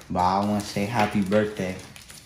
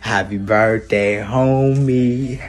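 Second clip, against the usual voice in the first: loud; 4 dB louder, much slower than usual. Real, not acted. Shouted birthday greeting.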